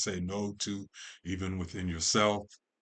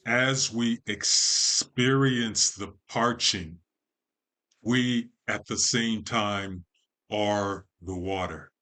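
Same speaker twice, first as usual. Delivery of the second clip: slow, emphatic, raised voice; impassioned declaration; 2 semitones higher, 4 dB louder, slower than usual. Real, not acted. Telling listeners we are the water, emphatic. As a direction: declare it slowly with force.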